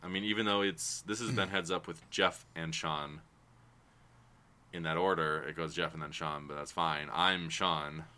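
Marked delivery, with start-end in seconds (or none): 1.0-3.2 slow, unhurried outro, leaving room for a pause; slowed-down sign-off. Shown as a demonstration. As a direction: take the sign-off slowly so your co-host can follow. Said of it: "just slow it down".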